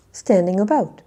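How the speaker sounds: loud model phrase with weight on "about"; second-word stress. Shown as a demonstration. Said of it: "a little bit louder and just a little bit longer".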